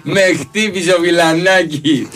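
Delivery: high, pleading complaint to the referee; whiny diver voice. Retold or imitated. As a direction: whine like a player begging for a penalty. Same mock player complaint.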